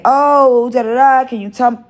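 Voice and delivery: high, mock-sweet fishing for gossip; mock sweet prying. To the coworker, the question she never asked, mock sweet. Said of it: "I didn't say".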